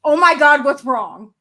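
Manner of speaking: retold startled worry on the phone; alarmed concern. Husband hearing she's been crying, alarmed. Husband reacts to her tearful hey.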